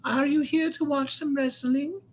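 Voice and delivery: high, slow cartoonish announcer; wrestling character voice. Shown as a demonstration. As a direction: welcome wrestling fans in a high, drawn-out put-on voice. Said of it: "do a whole podcast episode in my, uh, voice".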